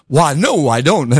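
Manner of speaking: light put-on English accent, dropping low; a hint of a polite Englishman declining. Mimicking the British visitor in a mild English accent. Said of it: "my English accent sounds black".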